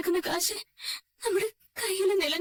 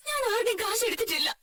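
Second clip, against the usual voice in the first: tearful question to her father; crying plea; 3 semitones higher than usual. Acted. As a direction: plead through tears, voice catching. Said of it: "മോളെ, നീ എന്തിനാ ഇങ്ങനെ കരയുന്നേ?". (കരഞ്ഞുകൊണ്ട് അച്ഛനോട് ചോദിക്കുന്നു)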